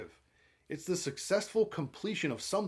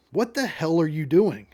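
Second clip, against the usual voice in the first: raised, louder narrated yell; 2 semitones higher, 8 dB louder than usual. A narrator's reading. Survey worker challenging Monica in his truck, mild yell. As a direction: yell it in angry disbelief, reading aloud. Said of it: "He yells".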